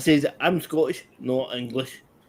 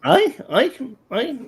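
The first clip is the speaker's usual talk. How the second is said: emphatic aye; 11 semitones higher, slower than usual. Real, not acted. Emphatic Scottish yes.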